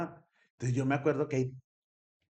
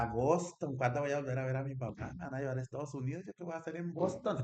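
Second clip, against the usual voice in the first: tearful panic; 4 semitones higher, faster than usual. Retold or imitated. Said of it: "Yo lloraba peor porque decía".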